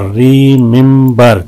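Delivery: "रिमेंबर" slowly, in three beats; syllable breakdown. Shown as a demonstration. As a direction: lengthen each syllable of "रिमेंबर". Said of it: "तीन है इसमें". ("रिमेंबर" तीन हिस्सों में धीरे)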